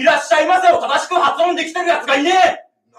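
hammed-up angry shout about Aomori; mock rant. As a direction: rant it like a fed-up local.

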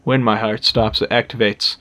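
bad Irish accent, lightly done; a hammy Irish brogue. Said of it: "my very bad Irish".

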